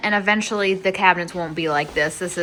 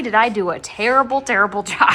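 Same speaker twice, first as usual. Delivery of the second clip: laughing at her own clumsy work; amused self-mockery; 3 dB louder than usual. Real, not acted. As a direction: giggle through the words.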